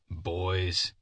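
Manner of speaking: earnest address. Acted. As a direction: call the boys in gently, meaning it. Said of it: "he said earnestly".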